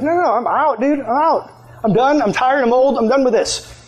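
insistent, high-pitched pushback; acted protest. Retiring worker refuses boss's last job.

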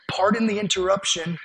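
imitated humble, gentle interruption; sweet little voice. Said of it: "like, the sweetest little voice".

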